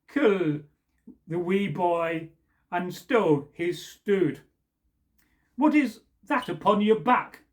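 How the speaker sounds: measured, slow ballad recitation; storyteller reading a folk poem aloud. A narrator's reading. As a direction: recite it like an old Scots ballad. Reads the old Scottish poem.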